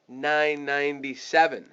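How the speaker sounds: "nine ninety-seven" stretched slowly in two parts; small-sounding price. Shown as a demonstration. Salesperson offering the discount price, slow and understated. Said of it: "So it sounds way smaller".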